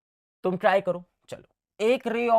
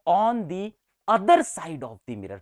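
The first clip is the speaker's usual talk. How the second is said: dictation; much slower than usual. Shown as a demonstration. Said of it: "slow dictation".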